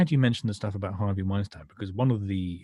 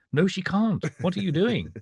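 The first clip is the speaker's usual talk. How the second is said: incredulous; 9 semitones higher, 4 dB louder than usual. Retold or imitated.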